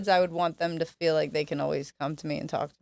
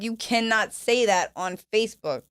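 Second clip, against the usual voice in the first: slow, higher-pitched telling-off; exasperated scolding; 4 semitones higher than usual. Retold or imitated. Daughter warning dad off posting threats, exasperated scolding. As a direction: spell it out slowly, as if warning a parent.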